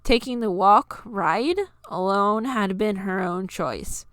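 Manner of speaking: usual speaking voice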